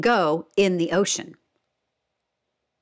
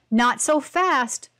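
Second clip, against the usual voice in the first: put-on old starfish warning; 4 semitones higher, slower than usual. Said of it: "old Starfish warned".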